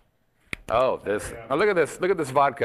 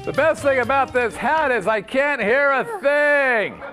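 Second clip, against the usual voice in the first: high, slow mock-Russian accent; hammed-up Russian host; 7 semitones higher, 3 dB louder than usual. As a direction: call it out in a comic Russian accent. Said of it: "this is my Russian accent".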